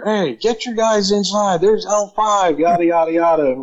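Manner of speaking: high barked order, slow at first; retold yell. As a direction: bark the order across the yard. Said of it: "yells at the senior".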